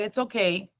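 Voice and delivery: a gentle hush to soothe; calm reassurance. Retold or imitated. Mother soothes her scared daughter, soft and calm. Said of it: "calmness to herself".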